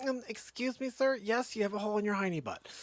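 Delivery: a hint of a sugary receptionist; mock receptionist. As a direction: play a prim front desk caller. Mock receptionist phone call.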